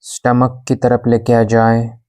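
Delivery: even, unhurried yoga nidra guidance; guided meditation. Acted. Yoga teacher guiding a class in shavasana, calm meditation voice. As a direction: guide them into stillness, with long pauses between instructions.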